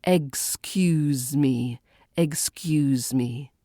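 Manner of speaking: "Excuse" said very slowly with a buzzing Z; slow model "Excuse me", long Z in "Excuse"; drawn-out Z sound. Shown as a demonstration. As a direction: stretch "Excuse me", voicing the S as Z. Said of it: "should be sort of more of a Z sound".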